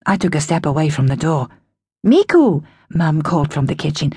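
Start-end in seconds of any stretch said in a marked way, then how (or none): 2.0-2.6 louder, annoyed call of a name. Acted. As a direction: call out, getting fed up. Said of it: "sounding annoyed".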